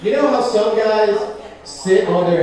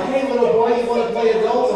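raised-pitch mock come-on; put-on higher voice; teacher propositioning pupil; 5 semitones higher than usual. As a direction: act out an adult's invitation to a child, pitched up. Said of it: "She walked up to me and said".

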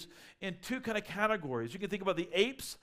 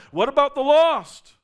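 much higher and louder, slowed and insistent; loud prophet outcry; 8 semitones higher, 14 dB louder than usual. Retold or imitated. Preacher voicing a prophet demanding care for the lost, loud and slow. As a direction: call it out slow and urgent. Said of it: "Prophets are going".

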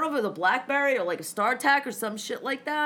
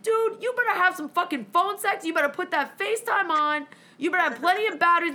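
higher, emphatic, speeding up at the end; insistent lecture; 5 semitones higher than usual. Retold or imitated. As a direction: lay down the law to a friend. Bossing friend to stay home.

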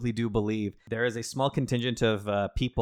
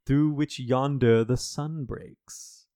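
mock Riddler; 3 semitones higher, 4 dB louder than usual. Improvised Riddler taunting Zola.

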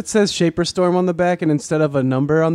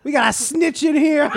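tough inmate voice; 8 semitones higher than usual. Pretend. Prison inmate in shop class.

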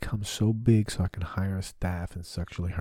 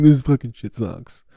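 deer voice, much louder and higher; loud deer complaint; 6 semitones higher, 17 dB louder than usual. Pretend. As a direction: belt the complaint as the fed-up deer. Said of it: "He's like".

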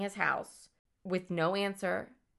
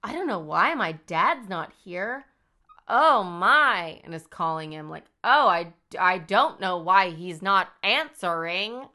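badly faked concern, lightly voiced; hammed-up fake worry; 5 dB louder than usual. Killer fakes worry about dad to friends at bar. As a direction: overact innocence, badly. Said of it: "Do you understand my acting here?".

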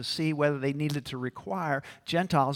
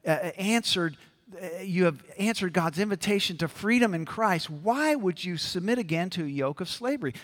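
higher, louder urgent question; Paul rebuking; 5 semitones higher, 5 dB louder than usual. Retold or imitated. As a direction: scold the Galatians passionately. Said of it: "Paul says".

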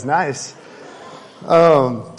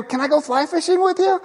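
high, cheery greeting over the fence; friendly neighbor; 12 semitones higher than usual. Retold or imitated. Neighbor Jim greeting Jeff over the backyard fence, high and cheery. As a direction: call out like an eager neighbor.

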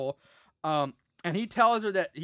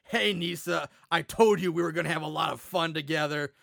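imitating the monster. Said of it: "Knucklebone says".

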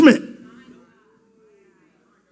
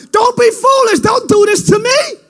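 pleading cry. Acted. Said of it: "she cried".

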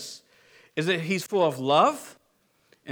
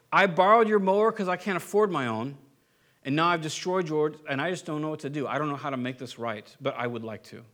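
sincere apology; 4 semitones lower than usual. Retold or imitated. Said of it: "respond with genuineness".

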